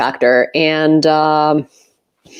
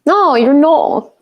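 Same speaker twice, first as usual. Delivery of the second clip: drawn-out teasing no; teasing retort; 9 semitones higher, slower than usual. Real, not acted. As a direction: tease him back, slow and raised. Teasing the guest back.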